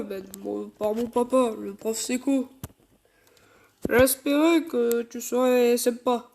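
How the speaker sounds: put-on mild low girl voice; deep Flora voice. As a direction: play Flora low, understated. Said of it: "une voix tarpin grave pour Flora".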